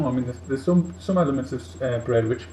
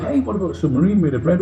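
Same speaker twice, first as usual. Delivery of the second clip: bursting out with the bread idea on waking; eager wake-up shout of a silly invention; excited waking cry; 6 semitones higher than usual. Retold or imitated. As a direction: blurt it out, thrilled, fresh from the dream.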